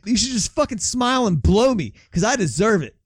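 imitating a screaming rant; retold scream. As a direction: yell it high like a raging man. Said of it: "as he's screaming".

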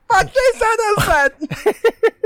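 very high, slow desperate plea; pleading villager. Acted. Acting out witch-burning crowd.

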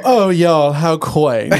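high, loud condescending sniff; snooty mock. The Oranges looking down on Applejack's y'all, high snooty voice. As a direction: sneer down at a country word. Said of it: "And they go".

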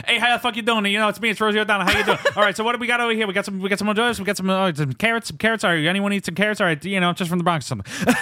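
high, brash Bronx voice, laughing through it; Rosie O'Donnell from the Bronx. Retold or imitated. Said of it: "It's Rosie O'Donnell. She walks in".

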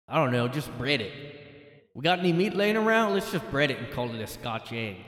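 mock British, rising to a loud shout; hammed-up British pub improviser; British accent. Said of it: "I can't do the accent".

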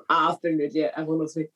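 reflective. Pretend. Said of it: "I think he'd say it in a reflective way".

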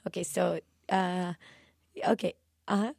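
soft, accented singer impression. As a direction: address the audience softly in a mock singer's accent. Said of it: "she just was like".

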